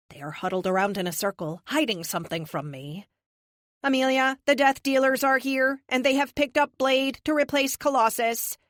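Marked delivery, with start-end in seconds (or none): 3.8-8.6 crisp synthetic AI voice; calm machine voice, higher. A narrator's reading. Epic the AI voice.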